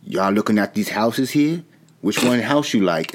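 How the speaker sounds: lightly imitated old-time Southern dialect; mock a film's weird drawled accent; a hint of exaggerated period accent; Will Smith's accent. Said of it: "Will Smith's had this weird accent".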